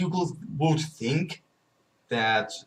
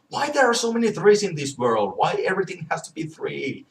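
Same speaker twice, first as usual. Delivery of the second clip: exasperated; 4 semitones higher, much faster than usual. Real, not acted. Ranting about the number three.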